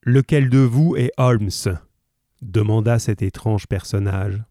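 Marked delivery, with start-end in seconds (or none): 0.0-1.5 grosse voix de brute qui exige; brute menaçante. Acted. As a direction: aboie la question en colosse furieux. Voix du docteur Roylott. (brute menaçante qui exige une réponse)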